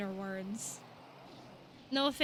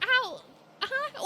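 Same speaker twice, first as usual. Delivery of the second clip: confused; 13 semitones higher, 3 dB louder than usual. Retold or imitated. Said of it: "I'm like".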